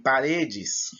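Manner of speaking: "paredes" with a drawn-out, stressed RE; stress on penultimate syllable. Shown as a demonstration. Teacher showing pupils the tonic syllable, "paredes" with RE stressed and stretched. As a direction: lean slowly on the RE of "paredes". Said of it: "percebe que a segunda sílaba".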